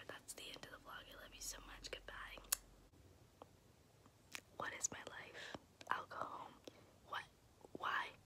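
very soft, voiceless whisper. Real, not acted. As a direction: murmur it under your breath, hushed. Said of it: "I'm sorry I'm whispering".

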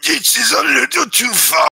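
high cartoon alien voice; Watto. Watto reviewing Hogwarts Legacy, high cartoon voice. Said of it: "him being like".

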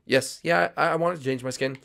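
lightly voiced reverse psychology bluff; fake-cheerful sidekick. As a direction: bluff that you wanted this all along.

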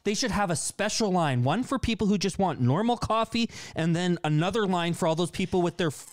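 fake mad. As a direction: rant with put-on irritation. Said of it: "You're so fake mad".

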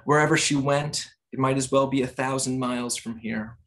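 measured poem recital with pauses between phrases; poetry reading. Acted. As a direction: read the poem in deliberate, separated phrases. Reads own poem aloud.

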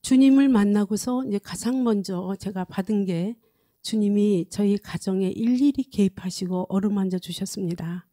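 ordinary talk

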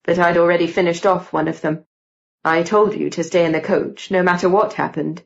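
lightly voiced young man scolding; reproachful Gideon.

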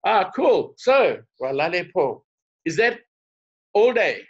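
eager learner. Retold or imitated. Checking a new greeting with a stranger, eager. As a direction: act out keen delight at a new word.

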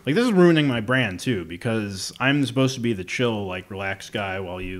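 hyper rapid talking; wired, words tumbling out; too much caffeine. Real, not acted. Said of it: "talking, like, a million miles a minute".

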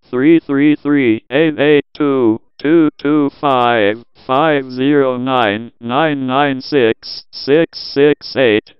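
reads each digit slowly and deliberately; slow, taunting read of a card number. Acted. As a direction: drag the numbers out to waste the scammer's time.

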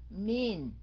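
"Mean" as min, held on the N; first half of minute, "Mean", closed on N; N closing syllable. Shown as a demonstration. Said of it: "mình đọc cái âm đó hai lần". ("Mean" đọc min, giữ âm N)

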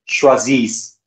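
choisissent with ent left silent. Shown as a demonstration. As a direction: drop the ent ending of choisissent. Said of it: "E N T is never pronounced".

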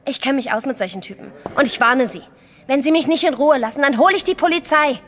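zunehmend lauter und höher werdend, empört; empörte Drohung. Acted. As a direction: steigert sich in die Drohung hinein. Kellnerin droht dem Fremden. (Kellnerin droht dem aufdringlichen Fremden, empört und laut)

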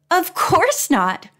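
high, slow, laughing reply. A narrator's reading. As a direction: tease with a laugh. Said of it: "Penny said with a laugh".

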